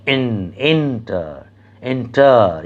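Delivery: এন-, এন্টার with weight on এন; এন্টার demonstrated with falling, unstressed টার; unstressed last syllable. Shown as a demonstration. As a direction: separate এন first, then let টার drop in এন্টার. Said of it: "তাতে যদি সেই জোরটি না থাকে".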